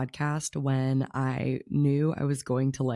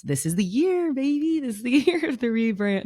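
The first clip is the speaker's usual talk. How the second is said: high, loud burst of real excitement; thrilled announcement breaking into a laugh; excited; 9 semitones higher, 5 dB louder than usual. Real, not acted. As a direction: hype it up, voice leaping higher and louder. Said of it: "I'm really excited".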